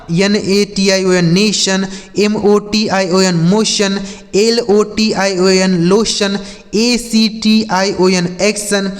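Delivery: letters spelt out slowly one by one; slow spelling. Shown as a demonstration. Teacher spelling words out slowly for students. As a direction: spell each word out slowly. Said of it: "spells out words slowly".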